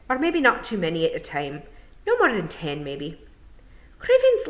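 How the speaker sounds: sizing her up cheekily; squabbling wee pixies; gossiping Scots pixies. Acted. Pixies whisper about Tiffany.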